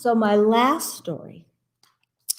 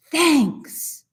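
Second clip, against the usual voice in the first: bear voice; 7 semitones higher than usual. Acted. Bear's line.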